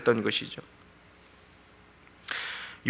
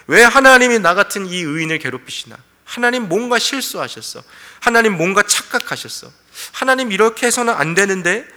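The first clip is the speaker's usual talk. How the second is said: resentful protest; 5 semitones higher, 3 dB louder than usual. Acted. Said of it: "은연중의 원망함과 그 불평함".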